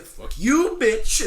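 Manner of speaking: high, loud hammed-up snarl; mock villain yell. Retelling the movie to friends, the queen's hammed-up yell. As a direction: spit it out like a cartoon villain.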